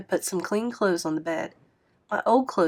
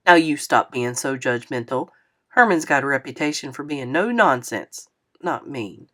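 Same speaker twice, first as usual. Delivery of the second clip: put-on lower, relaxed old man's voice; an amused old musician, unhurried; easygoing old man; 5 semitones lower than usual. A narrator's reading. Lefty chides his daughter.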